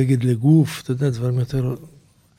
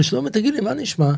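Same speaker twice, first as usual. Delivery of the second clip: quoting the producer in a much higher, offhand voice; imitating the producer; 10 semitones higher than usual. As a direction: play the producer breezily changing the subject. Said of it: "הוא אומר לי". (חיקוי המפיק בקול גבוה בהרבה)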